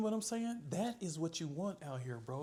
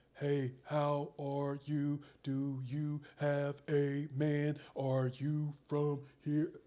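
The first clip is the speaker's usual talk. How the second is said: loud, flat, mechanical, machine-like robotic delivery; 3 semitones lower, 5 dB louder than usual. Showing how not to start a conversation with women: robotic delivery. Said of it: "don't be robotic like".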